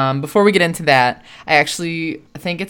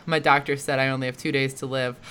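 mock serious; 3 semitones lower, 5 dB quieter than usual. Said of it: "it's all serious and it's like".

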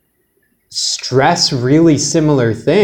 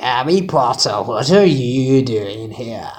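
put-on slow, failed British accent; mock-British line, badly done; amateur British accent attempt; 3 semitones lower, 3 dB quieter than usual. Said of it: "I think you were trying to be British".

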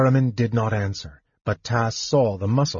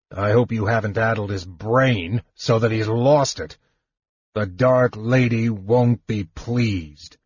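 a hint of a deep warrior voice. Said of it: "in his deep voice".

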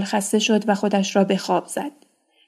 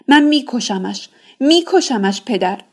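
tearful threat; 3 semitones higher than usual. Acted. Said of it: "اشک ریزان".

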